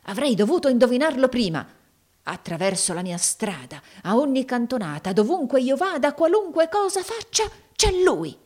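rising, high-pitched frustration; climbing pitch, tormented complaint; exasperated outburst. A narrator's reading. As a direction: build from bitterness to a high, exasperated cry. Villain's bitter outburst on seeing enemy.

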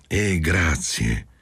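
"grazie" slow and pointedly stressed. A narrator's reading. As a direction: lean on "grazie" with meaning. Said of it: "Sottolineò la parola grazie con tono allusivo".

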